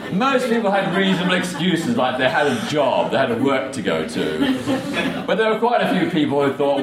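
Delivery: amused, laughing through the words; laughing while talking. Real, not acted.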